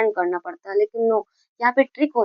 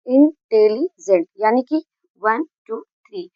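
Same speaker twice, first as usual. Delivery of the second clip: counting syllables slowly; slower than usual. Shown as a demonstration. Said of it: "यानी कि three syllable हैं".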